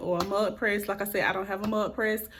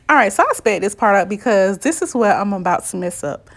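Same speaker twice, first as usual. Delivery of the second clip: loud; 12 dB louder than usual. Real, not acted. Sped-up warning section.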